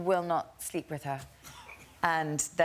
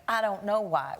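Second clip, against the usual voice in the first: put-on Southern accent; 3 semitones higher than usual. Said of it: "You're literally doing the accent of the play".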